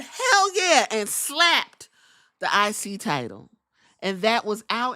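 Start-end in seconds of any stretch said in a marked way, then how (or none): 0.0-0.9 high, loud cheer; louder, higher triumphant yell; mock hype cheer. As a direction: shout it with swagger. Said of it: "he said".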